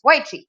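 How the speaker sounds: Weiqi said with Chinese tones; Chinese pronunciation. Shown as a demonstration. Trainer showing the class the Chinese word, carefully pronounced. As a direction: try Weiqi the way a Chinese speaker would. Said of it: "say it with the Chinese accent".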